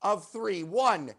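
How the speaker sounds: building countdown to loud shout; kids party magician. Pretend. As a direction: cue the crowd, then yell.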